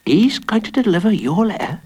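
high-pitched incredulous question; astonished. A narrator's reading. Pete hears who might deliver the letter, astonished. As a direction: ask it in astonishment. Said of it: "asked Pete, astonished".

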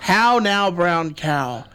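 Irish lilt on how now brown cow; Irish accent. Shown as a demonstration. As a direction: say it like an Irish speaker. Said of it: "if you say in Irish".

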